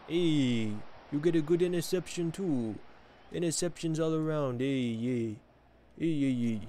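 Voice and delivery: playful mock Italian accent. Gamer commenting on his match in a jokey Italian accent. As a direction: put on a loose Italian accent. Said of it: "I'm doing an Italian voice".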